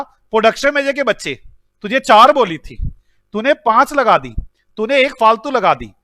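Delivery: loud scolding of the manager. Shown as a demonstration. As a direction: bark out the numbers. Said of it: "मैंने कहा था".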